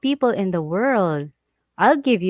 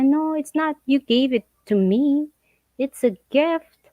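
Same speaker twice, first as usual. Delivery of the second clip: mock scammer denial; 6 semitones higher than usual.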